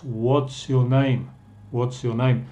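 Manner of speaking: "What's your name" with what and is joined into What's; contracted WHAT'S. Shown as a demonstration. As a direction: run What and is together as one word, "What's". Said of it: "en inglés juntamos las dos palabras".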